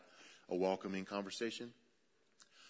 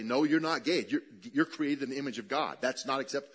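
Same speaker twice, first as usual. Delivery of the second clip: louder, lecturing church voice; preachy correction; 4 dB louder than usual. Retold or imitated. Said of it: "that's not the moment to say".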